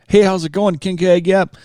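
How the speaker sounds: cheery radio host. Retold or imitated. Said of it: "You're like".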